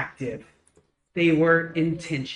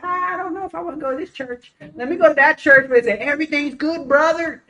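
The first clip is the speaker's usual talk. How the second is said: mock whiny churchgoer; 7 semitones higher, faster than usual. Mocking complaining churchgoer.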